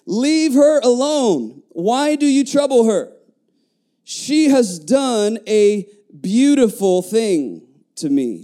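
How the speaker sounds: high, slow, emphatic rebuke; Jesus rebuking. Acted. Preacher voicing Jesus defending the woman, firm rebuke. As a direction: stretch each word firmly, easing down at the end.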